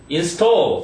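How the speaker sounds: install with the stress on STALL; in-STALL, second syllable stressed. Shown as a demonstration. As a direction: lean on the back half of install. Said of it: "뒤에 강세가 있으니까".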